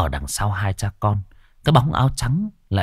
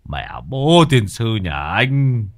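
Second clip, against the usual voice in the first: scolding. A narrator's reading. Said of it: "Bấy giờ ông mới mắng".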